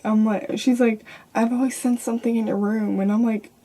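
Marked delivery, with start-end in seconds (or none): 1.4-3.0 mildly eerie imitation of a mother; a touch of creepiness, retold; creepy. Mother telling her child of a presence, imitated creepily. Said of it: "It's creepy how she said it".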